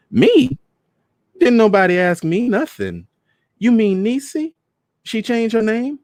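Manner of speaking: high, loud disbelieving cries; mother outraged, high and loud; shocked. Acted. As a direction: jump up in shock at the news.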